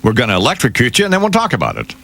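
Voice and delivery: a hint of a breezy Jesus, rising high at the end; lightly voiced Jesus, quick and glib; mock Jesus voice. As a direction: play Jesus as casually cheerful about the execution. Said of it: "that Jesus would say".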